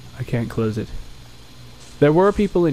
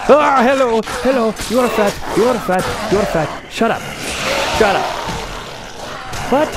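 silly mocking voice; 5 semitones higher than usual. Player mocking game enemies in a goofy voice. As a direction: tease them in a goofy voice.

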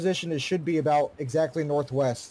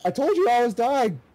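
frustrated complaint; 7 semitones higher, 5 dB louder than usual. Real, not acted. Dies, complains to teammate.

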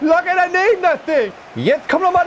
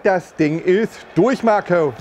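smug low voice; 10 semitones lower, slower than usual. Acted. Smug after winning lead.

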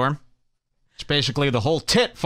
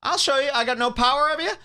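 mock Lana taunt; 9 semitones higher, faster than usual. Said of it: "she goes".

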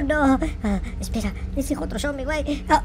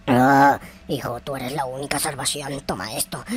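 put-on old man voice; 12 semitones lower than usual. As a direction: speak like a frail elder handing over a gift. NPC gives armor.

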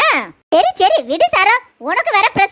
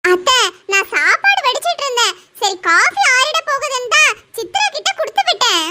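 higher, meek daughter-in-law explaining; a lightly voiced young wife excusing herself; higher daughter-in-law defending herself to her mother-in-law; 5 semitones higher than usual.

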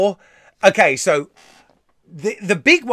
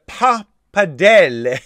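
Italian accent; 5 dB louder, slower than usual. Shown as a demonstration. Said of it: "I'm not Italian anyway".

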